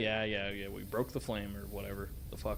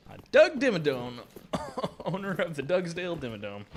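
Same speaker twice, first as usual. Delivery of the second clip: louder, higher cartoon announcer voice; cartoon character quote; 6 semitones higher, 5 dB louder than usual. Gamer quoting a cartoon tycoon, loud announcer voice. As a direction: belt the cartoon name like a show character. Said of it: "Fairly Odd Parents".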